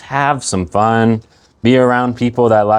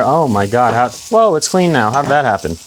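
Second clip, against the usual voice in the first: mock surprise; 2 semitones higher than usual. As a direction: act amazed it's clean.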